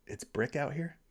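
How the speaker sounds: quiet, confused repeat with a rising question; puzzled echo question. Real, not acted. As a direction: echo the phrase back as if you can't decode it. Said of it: "I don't know what that means".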